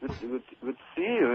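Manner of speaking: understated starstruck greeting, retold; retold shocked greeting. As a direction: greet your idol while caught off guard. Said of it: "I was shocked, you know, for a moment".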